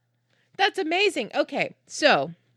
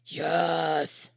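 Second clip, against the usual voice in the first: low guttural monster yes; 6 semitones lower, 4 dB quieter than usual. Real, not acted. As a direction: drop into a guttural growl. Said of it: "What was that? I just monster voice".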